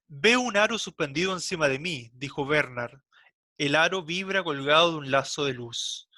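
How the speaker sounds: measured reading of a literary text; literary read-aloud. Acted. Teacher reads the novel's opening to the class, measured literary reading. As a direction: read it out phrase by phrase, with pauses.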